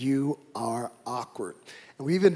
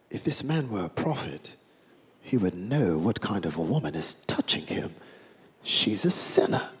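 snide Pharisee; 5 semitones lower, 6 dB quieter than usual. Acted. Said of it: "every Pharisee has a British accent".

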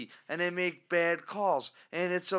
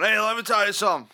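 a hint of a brash caller, fast and louder; radio caller; 3 semitones higher, 6 dB louder, faster than usual. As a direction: rattle off like an eager call-in fan. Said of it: "they start going".

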